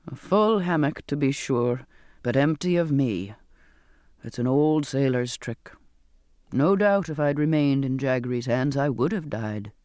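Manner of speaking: a hint of an old sailor, low; lightly voiced Zachariah. Zachariah explains his sailor's trick to Charlotte, lightly voiced and low. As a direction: drop the pitch and explain evenly.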